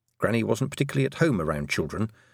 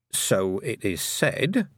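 diplomatic; much slower than usual. Acted.

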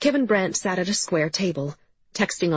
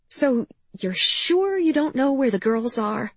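lightly sweet, higher-pitched questioning; almost friendly, almost cute; 7 semitones higher than usual. A narrator's reading. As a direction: ask it higher, as if being cute. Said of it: "almost friendly, almost cute".

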